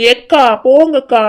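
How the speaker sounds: slow, drawn-out whiny protest. Acted. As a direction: draw it out like a sulky complaint. Teased while crying over onions. (சிணுங்கலான மறுப்பு)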